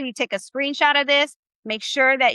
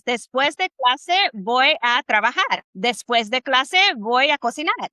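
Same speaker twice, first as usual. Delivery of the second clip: slow example phrases; slower than usual. Shown as a demonstration. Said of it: "you could say something like this".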